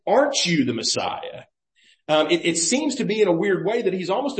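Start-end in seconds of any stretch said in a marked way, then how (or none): 0.1-1.4 "Aren't" hit first, then falling; "Aren't" leads the question, pitch dropping away; stress on Aren't. Retold or imitated. Preacher quoting this man, stress on "Aren't". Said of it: "This man says".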